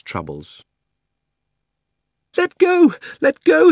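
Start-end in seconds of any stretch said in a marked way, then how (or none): 2.4-3.7 put-on very high, loud girl's scream. Polly screams at the witch holding her hair. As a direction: shriek to be freed. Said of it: "screamed Polly".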